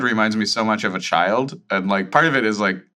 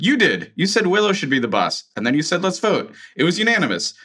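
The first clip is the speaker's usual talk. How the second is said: accusing chorus; 6 semitones higher, faster than usual. Acted. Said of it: "kind of a chorus of".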